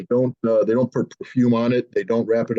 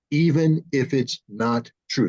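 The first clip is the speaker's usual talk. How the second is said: slow quote; slower than usual. Retold or imitated. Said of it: "That's a direct quote".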